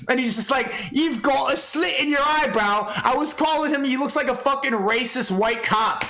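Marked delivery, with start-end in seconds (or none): 0.9-2.9 lightly mocking impression, slow and raised; a hint of a put-on voice, words dragged out; Daz. Streamer repeating Daz's weak comeback, lightly mocking him.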